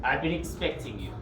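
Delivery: low, smooth villain greeting; Bond villain. Acted.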